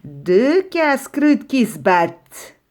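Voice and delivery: slow, sly, relishing fox voice; hungry fox gloating over two fighting rabbits, slow and sly. Acted. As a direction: savour the sight of two easy snacks. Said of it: "un renard affamé survint".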